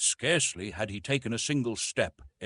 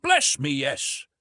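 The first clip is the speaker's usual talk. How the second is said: higher, slow, louder meek agreement; acquiescing; 6 semitones higher, 6 dB louder, slower than usual. A narrator's reading. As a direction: give in sheepishly. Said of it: "acquiesced Mister Philander".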